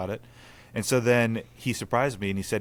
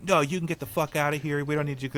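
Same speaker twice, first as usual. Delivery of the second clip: retold screaming; 7 semitones higher than usual. Man retelling the woman's reply to him, mild mock scream. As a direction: imitate an angry woman's scream, held back. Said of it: "keeps screaming".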